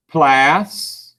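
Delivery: 'Plastic' split by a long pause; syllable by syllable. Shown as a demonstration. Teacher dictates for spelling, 'Plastic' syllable by syllable. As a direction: hold 'plas', wait, then 'tic'. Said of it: "See if you can spell it".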